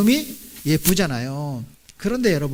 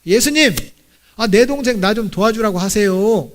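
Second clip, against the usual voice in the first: raised, mildly exasperated complaint; Martha; 2 semitones higher, 4 dB louder than usual. Acted. Martha complaining to Jesus about her sister, mildly confrontational. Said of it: "예수님께까지도 따지는 거예요".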